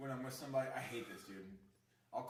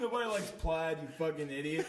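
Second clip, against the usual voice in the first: mock insult yell; 3 semitones higher, 4 dB louder than usual. Mock insult rant at Irish.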